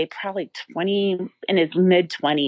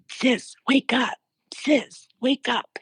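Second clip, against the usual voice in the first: gently calling dad; 7 semitones higher than usual. Retold or imitated. Dad waking her in dream.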